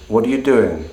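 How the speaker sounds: doing falls at the end; falling tone. Shown as a demonstration. Teacher comparing three ways to ask. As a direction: let doing drop. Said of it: "all fundamentally mean essentially the same thing".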